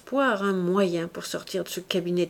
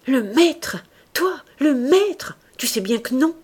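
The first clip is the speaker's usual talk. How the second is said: high, louder scornful questioning; mauvaise moquerie; 7 semitones higher, 6 dB louder than usual. A narrator's reading. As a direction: throw it back with nasty derision. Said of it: "avec un rire mauvais". (raillerie mauvaise, voix montante)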